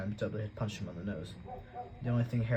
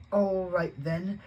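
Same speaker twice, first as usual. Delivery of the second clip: higher, louder, grudging; Dudley grudging; 8 semitones higher, 5 dB louder, much slower than usual. A narrator's reading. Spoiled boy accepting, higher and grudging. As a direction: give in sulkily. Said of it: "said Dudley".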